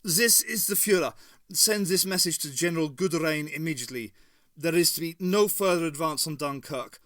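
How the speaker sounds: shaky command. A narrator's reading. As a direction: bark orders down the phone, shakily. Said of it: "a shaky version of his old commanding tone".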